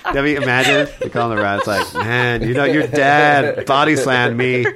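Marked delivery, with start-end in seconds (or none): 1.9-4.7 laughing mock coworker. Coworker of dad imagined.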